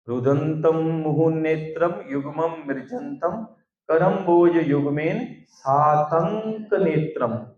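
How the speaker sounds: slow, drawn-out Sanskrit recitation; measured scripture chanting; verse recitation. Real, not acted. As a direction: intone the verse slowly, stretching the syllables.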